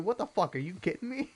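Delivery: high, mock-outraged disbelief; hammed-up indignant complaint; pissed off. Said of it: "I'd be so pissed about that".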